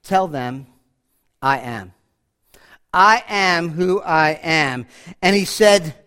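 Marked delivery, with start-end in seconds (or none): 0.0-1.9 lower, quiet voice of God; God calmly telling Moses his name. Acted. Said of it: "God said to Moses". 2.9-4.9 a slow, lower voice of God; slow deep divine voice. Acted. God naming himself to Moses.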